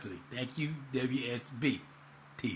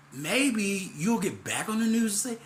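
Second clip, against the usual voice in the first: mock tearful; 5 semitones higher than usual. Sets up mocking a newsman.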